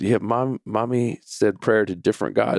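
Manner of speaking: lightly voiced small child; pouting little boy. Son repeating his complaint to dad, mildly pouty. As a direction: imitate an upset kid insisting. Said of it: "little pout on his face and a little bit of tears".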